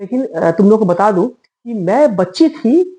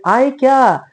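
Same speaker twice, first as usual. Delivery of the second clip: a light sing-song call into the dark, a touch higher; 5 semitones higher, much slower than usual. Retold or imitated. Child calling to hidden friends in the dark, mild call. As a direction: call out across the yard, hide-and-seek style. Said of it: "ऐसे बोलते थे".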